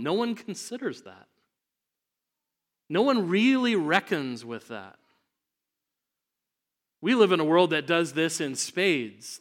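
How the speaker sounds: urgent sermon delivery; impassioned preaching. Real, not acted. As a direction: press the point home from the pulpit. Preaches at full force.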